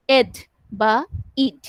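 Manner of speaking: এড and ইড said as separate sounds; ed ending sound. Shown as a demonstration. Teacher giving students the ending sounds. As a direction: say the ending এড, then ইড. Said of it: "উচ্চারণ হবে ইডি".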